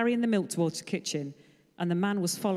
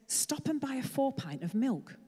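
slow, distant inner voice; inner divine voice; 5 semitones higher, slower than usual. Acted. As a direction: say it slowly like a voice in his head. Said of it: "He said".

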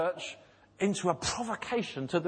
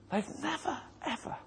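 soaring emphasis; 9 semitones higher, 5 dB quieter than usual. Acted. Preacher building emphasis.

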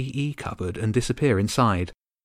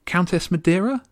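raised voice calling into the air; 8 semitones higher, 4 dB louder than usual. Acted. Boy calling to a starling, raised voice. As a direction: call out to the bird, unsure. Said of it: "he called out".

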